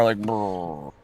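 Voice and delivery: low, soft melting buzz sound; lip buzz. Retold or imitated. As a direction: buzz your lips as if melting. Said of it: "I melt out of the car".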